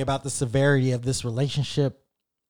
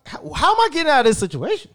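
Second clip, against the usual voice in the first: higher, fast, panicky; panicked thought; 9 semitones higher, faster than usual. Retold or imitated. Trapped in the apartment, panicked and rushed. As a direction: rush it, trapped and scared. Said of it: "trying to figure out".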